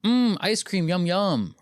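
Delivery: high, sing-song NPC voice; NPC streamer voice. Retold or imitated. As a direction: mimic a robotic e-girl streamer. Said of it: "She's like".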